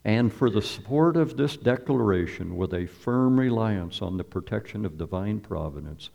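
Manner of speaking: measured, ceremonial reading of a founding document; formal reading. Acted. Preacher reads the Declaration to his congregation, solemnly. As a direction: declaim it like a proclamation.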